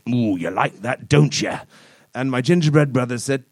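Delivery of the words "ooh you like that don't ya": sexy phrases. Pretend. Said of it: "saying sexy phrases like".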